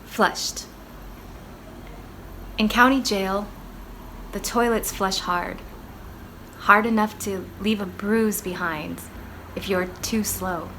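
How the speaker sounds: measured spoken-word reading with deliberate pauses; solemn, deliberate poetry reading; poem recitation. Acted. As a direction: recite the poem line by line, letting each phrase land. Recites own poem after introduction.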